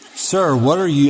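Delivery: normal talking voice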